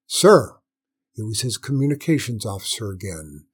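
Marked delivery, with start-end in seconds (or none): 0.1-0.6 urgent call. A narrator's reading. Officer calls out urgently.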